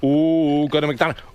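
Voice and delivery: loose Leno joke, laughing into it; a touch of Leno's delivery; Jay Leno impression. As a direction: rattle off the punchline fast like Leno. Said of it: "You do do a good Leno".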